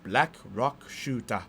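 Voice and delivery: slow, drawn-out heroine declaration; dramatic name reveal. Acted. Anime heroine declaring her new name at the climax, dramatic. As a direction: announce it word by word, very slowly.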